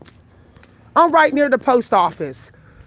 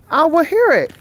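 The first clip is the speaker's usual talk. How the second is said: exasperated refusal; 4 semitones higher, faster than usual. Real, not acted. Grieving walker snapping at commenters, exasperated and raised. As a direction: shut the critics down, voice rising. Repeats refusal, second time louder.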